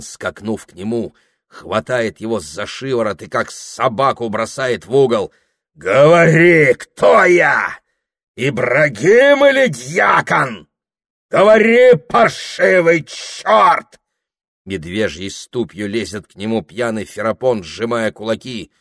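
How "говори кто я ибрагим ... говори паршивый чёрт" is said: высоко и громко, с напором; трясёт и требует ответа; яростный крик. Acted. Дьякон трясёт Прохора. (дьякон орёт на Прохора, требуя признания)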